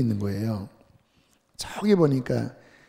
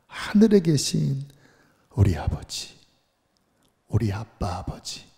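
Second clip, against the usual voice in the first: tender prayer. Shown as a demonstration. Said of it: "이렇게 기도해라".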